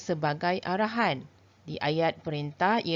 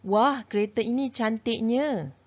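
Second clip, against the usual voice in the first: admiring exclamation; 4 semitones higher than usual. Shown as a demonstration. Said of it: "melahirkan pelbagai perasaan".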